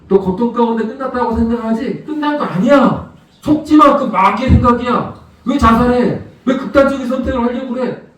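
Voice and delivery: a God firmly telling the sufferer to stop believing the lie; God's firm rebuke. Acted. God voiced rebuking the despairing.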